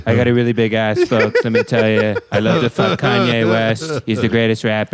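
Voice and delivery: lightly voiced politician impression; hokey, half-committed presidential parody; Donald Trump. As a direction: play the boastful politician as a celebrity. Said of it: "you keep doing that Donald Trump".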